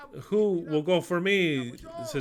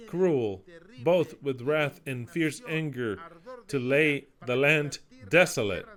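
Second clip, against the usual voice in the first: scripture reading. Acted. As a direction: read the prophecy like a judgment. Reads Isaiah aloud, solemnly.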